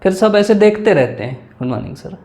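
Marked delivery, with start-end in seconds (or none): 1.5-2.2 soft greeting. Shown as a demonstration. Candidate greets the interview panel.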